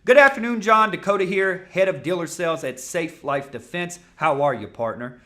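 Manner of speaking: big high greeting, loud and high; loud, bright opener. Shown as a demonstration. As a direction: open the call loud and high, full of energy. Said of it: "Listen to how simple this is".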